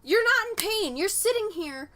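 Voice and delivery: mock disbelief from the tattoo artist; imitating the artist. Tattoo artist quoted, surprised.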